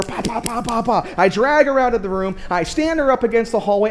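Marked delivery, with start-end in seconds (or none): 0.0-1.1 rapid vocal knocks, pa-pa-pa; imitated door pounding. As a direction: imitate urgent banging on a door. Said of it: "I'm just pounding on the door".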